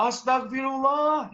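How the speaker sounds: high, loud, slow mock exclamation; pious angry exclamation. Parent reacting to the broken glass with a pious, high cry. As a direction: gasp it like a pious scolding parent. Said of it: "marah yang syar'i".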